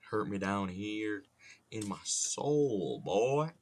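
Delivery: slow Southern drawl rising on the last word; hammed-up Southern lament; Southern accent. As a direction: lay on a mock-wounded Southern drawl. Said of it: "I've been in a southern accent mood".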